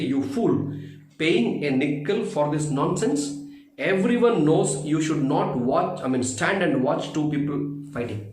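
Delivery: rising angry scolding; angry father shouting. Acted. Father scolding his son for wasting a nickel, angry. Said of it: "He screamed at his son. He shouted at his son".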